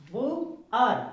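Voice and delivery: "बु आर" split into "boo" and "ar"; syllable-by-syllable pronunciation. Shown as a demonstration. Teacher warning not to misread it, careful pronunciation demo. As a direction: model "बु आर" in two distinct beats. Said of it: "इसको गलत नहीं पढ़ना है".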